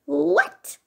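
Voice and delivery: high little mouse question; wide-eyed surprise. A narrator's reading. Mouse hears Bear refuse presents, high surprised question. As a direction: squeak it in surprise. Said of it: "Mouse's eyes opened wide".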